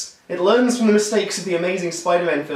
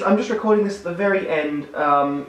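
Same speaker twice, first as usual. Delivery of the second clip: hoarse, strained voice pushing through; rasping through a worn-out throat; losing voice. Real, not acted. Reviewer with a worn throat apologizing to viewers, hoarse. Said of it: "My throat is getting really hoarse".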